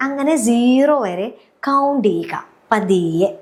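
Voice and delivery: slow, stretched-out words; unhurried, drawn-out guidance; slow instruction. Shown as a demonstration. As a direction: ease them slowly towards sleep. Shows the unhurried counting to sleep.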